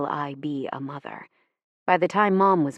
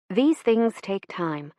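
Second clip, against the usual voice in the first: philosophical voice; 3 semitones higher, slower than usual. Retold or imitated. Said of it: "in her philosophical voice".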